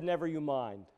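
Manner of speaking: a soft, low, calm voicing of the Lord; quiet divine reassurance; gentle reassurance. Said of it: "The Lord said".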